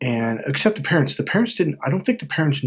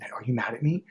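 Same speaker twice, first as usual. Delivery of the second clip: soft, unsure asking; timid question; 6 dB quieter than usual. Retold or imitated. Anxious person asking a friend, softly and timidly. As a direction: ask it quietly, afraid of the answer. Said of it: "Do you say".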